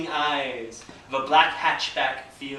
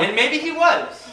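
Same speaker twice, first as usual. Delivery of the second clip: high and slow, laughing through it; 11 semitones higher, 4 dB louder than usual. Real, not acted. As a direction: let the laugh carry the line.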